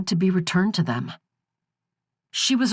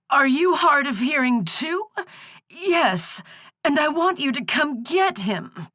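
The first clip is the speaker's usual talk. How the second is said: put-on croaking old crone; 10 semitones higher than usual. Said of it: "the croaking was starting to hurt her throat".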